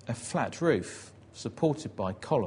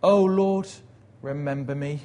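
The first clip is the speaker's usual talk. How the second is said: crying out in prayer; 3 semitones higher, 6 dB louder than usual. Retold or imitated. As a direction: cry out to God, then settle. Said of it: "he says".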